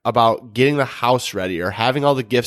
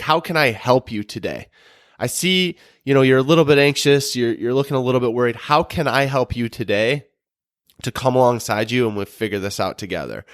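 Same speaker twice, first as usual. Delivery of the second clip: helpful tone. Shown as a demonstration. Husband showing how to ask his wife, caring tone. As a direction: ask gently like you truly want to help. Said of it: "a helpful nature tone".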